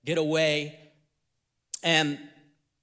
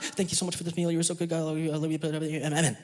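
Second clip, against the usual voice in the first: mock rote prayer; 4 dB quieter, much faster than usual. Believer thanks God for a meal, mock perfunctory. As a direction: mumble through grace on autopilot.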